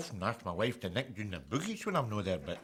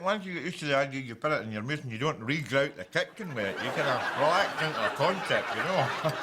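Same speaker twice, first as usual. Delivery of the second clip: sarcastic. Real, not acted. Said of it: "I'm being unpleasantly sarcastic".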